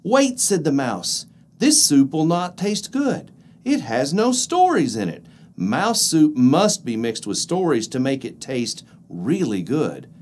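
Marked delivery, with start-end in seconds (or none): 0.0-0.4 high, urgent little mouse. Acted. Mouse interrupts weasel. 1.6-10.1 persuasive little mouse; clever mouse voice. Acted. Mouse tricks weasel.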